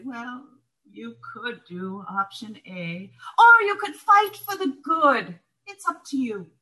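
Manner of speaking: gently steer toward the right option; knowing sponsor. Retold or imitated. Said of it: "she'll say".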